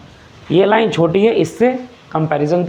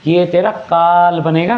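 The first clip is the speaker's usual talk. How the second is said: slow theatrical ये तेरा काल बनेगा, काल drawn out; menacing stage delivery, slowly; villain line in a play; dramatic stage line; slower than usual. Shown as a demonstration. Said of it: "नाटक वाले के हिसाब से".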